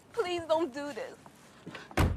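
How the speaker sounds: very slow tearful plea; crying. Acted. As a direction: drag it out through tears. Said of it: "Why are you crying".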